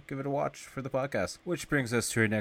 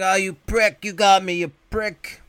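much higher, much louder dying yell; melting scream; 9 semitones higher, 9 dB louder than usual. Retold or imitated. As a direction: scream it as he melts away. Duran voiced, melting.

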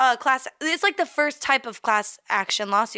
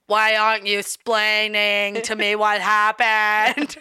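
Ricky Ricardo impression; 4 dB louder, slower than usual.

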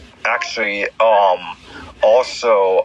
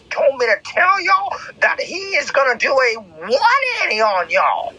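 raised, rising preacher voice; preaching; 8 semitones higher than usual. Acted. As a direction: build up the announcement. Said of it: "I'm gonna say that again".

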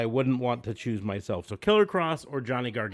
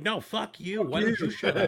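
mock yelling, laughing; 9 semitones higher than usual. Neighbors team up, retold.

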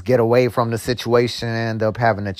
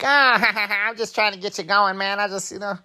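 laughing coworker; 8 semitones higher than usual. Retold or imitated. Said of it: "he was like".

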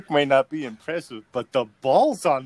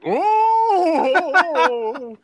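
a loud, high mock gasp of outrage; 6 dB louder than usual. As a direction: burst out like the mocking friends. Friends' mocking reaction.

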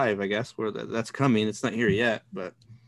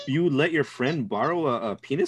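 disbelief. Real, not acted. Disbelief at friend borrowing pump.

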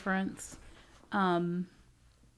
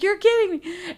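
laughing quote of friend; 11 semitones higher, 8 dB louder than usual. Retold or imitated. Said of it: "She was like".

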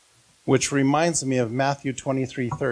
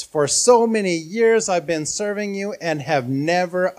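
a touch louder, indignant retelling; raised voice; 4 semitones higher, 3 dB louder than usual. Acted. Son angrily raising his voice at his father, mildly loud. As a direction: press the complaint harder. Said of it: "So angry that he raises his voice".

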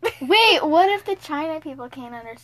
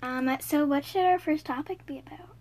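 soft unvoiced whisper; 7 dB quieter than usual. Real, not acted. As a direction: whisper the question. Whispering on camera.

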